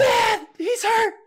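very high, loud and slow call for help; frantic call. Retold or imitated. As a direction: call mom from the yard in a panic. Kid calls mom for help.

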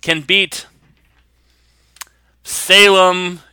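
high, hearty Boston shopkeeper; Bostonian accent. Acted. Shop owner praises Kat's season, Bostonian accent. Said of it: "And he's like".

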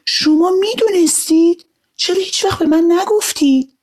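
put-on high, astonished child's cry; surprised. Arya asks father, high and astonished. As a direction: gasp it out, amazed he never told. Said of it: "آریا با تعجب گفت".

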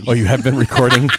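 surprised in a booming put-on voice; mock radio voice; deep put-on voice. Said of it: "since you started doing the voice".

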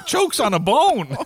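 slow words broken by laughter; laughing while talking. Real, not acted. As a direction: giggle through the punchline. Laughing through the punchline.

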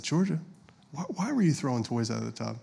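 soft, careful question; gentle parent. Retold or imitated. Dad asking his daughter about thrown toys, gently. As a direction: ask a child softly, without scolding.

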